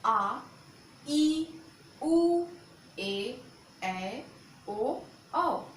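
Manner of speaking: loud, drawn-out vowel demo; long vowels said aloud. Shown as a demonstration. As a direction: call out each long vowel clearly and loudly. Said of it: "जैसे".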